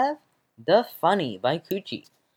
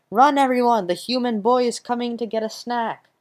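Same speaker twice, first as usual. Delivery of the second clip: panicked yell; 8 semitones higher than usual. Acted. Banana yelling at the fruit to run from the boy, panicked shout. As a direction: shout the warning to the other fruit. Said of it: "and it yells".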